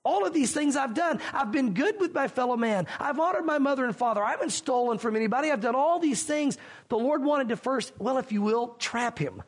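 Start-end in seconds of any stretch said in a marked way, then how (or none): 0.0-6.6 higher, lightly voiced boastful rich man; a touch of a self-satisfied braggart; mock bragging. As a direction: imitate a smug man boasting of his good deeds. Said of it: "this guy could brag and say".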